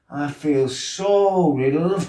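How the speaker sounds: high, slow mocking singsong; mocking girl. Girl in the background mockingly echoing his words. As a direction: mimic him in a sneering lilt. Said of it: "this girl in the background".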